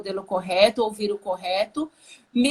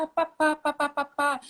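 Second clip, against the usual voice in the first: put-on light, higher toddler voice saying papá; toddler babbling papá; 3 semitones higher than usual. Small child calling its father, lightly voiced. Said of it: "se a criança falar".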